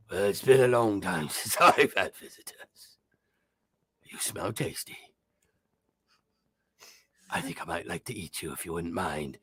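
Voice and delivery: menacing beholder, savoring its prey; heavy, gruff voice. Acted. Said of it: "you hear this, like, heavy, gruff voice".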